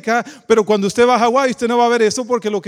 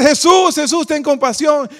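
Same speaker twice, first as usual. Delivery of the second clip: raised call, loudest at the start; imitated plea shouting; 3 semitones higher, 3 dB louder than usual. Lepers who must stay far off begging Jesus, mock shouting. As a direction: cry out for mercy, easing after the first word. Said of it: "se ponen a gritar".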